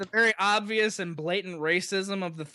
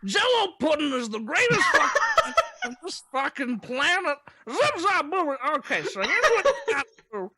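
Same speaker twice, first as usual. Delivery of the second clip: high, loud, rambling Cosby voice; Bill Cosby impression; 9 semitones higher, 3 dB louder than usual. Riffing on Jell-O pudding, loud high Cosby impression. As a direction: go full Cosby, laughing through it. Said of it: "That was a really good Bill Cosby".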